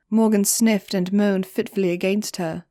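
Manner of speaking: usual speaking voice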